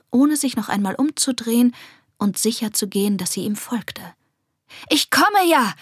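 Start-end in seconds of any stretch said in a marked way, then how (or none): 4.9-5.7 high, raised-voice call. A narrator's reading. Girl to pup racing ahead, calling out. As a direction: call ahead to someone flying off. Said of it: "rief Esmina".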